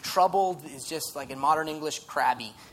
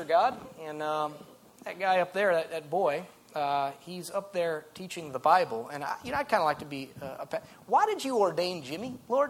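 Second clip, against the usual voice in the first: lightly put-on southern accent. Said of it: "I did a southern accent".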